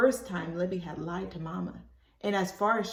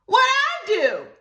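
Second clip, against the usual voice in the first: much higher, slow puzzled question; surprised child; 10 dB louder, slower than usual. Acted. Libby surprised by Ruthie Mae's anger, high and puzzled. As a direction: ask in honest shock. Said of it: "Libby was purely surprised".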